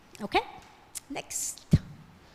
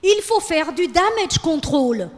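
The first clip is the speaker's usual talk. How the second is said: trendy speaker imitation; 2 semitones higher, 4 dB louder than usual. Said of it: "someone saying".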